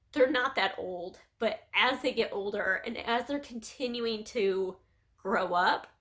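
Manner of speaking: halting, real emotion with long pauses; getting emotional. Real, not acted. Mother confiding about her children growing up, emotional. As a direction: keep stopping to hold back tears. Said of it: "I keep getting emotional".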